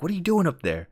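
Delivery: high-pitched mock call. Hunter calling to a man in a tree, high call.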